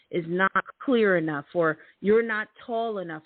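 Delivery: ordinary talk, nothing marked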